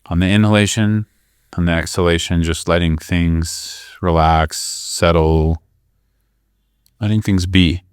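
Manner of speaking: calm, measured guidance with long pauses; guided meditation. Real, not acted. Teacher guiding listeners to breathe into the belly, guided meditation. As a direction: lead them through the breath, leaving room between phrases.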